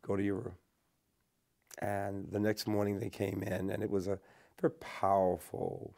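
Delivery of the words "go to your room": retold calm order, a little subdued; lightly voiced father, calm and unruffled. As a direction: give the order quietly, without any heat. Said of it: "my father said very calmly".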